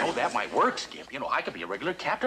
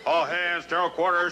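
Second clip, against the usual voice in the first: lowered command voice. Shown as a demonstration. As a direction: let the order come from the belly. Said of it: "That's it".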